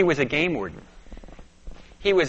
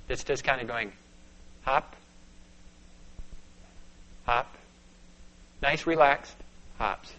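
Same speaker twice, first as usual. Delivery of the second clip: soft and hushed; 2 semitones lower, 7 dB quieter than usual. Real, not acted. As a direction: half-whisper the rabbit's hops as if not to scare it. Describing rabbit hopping softly.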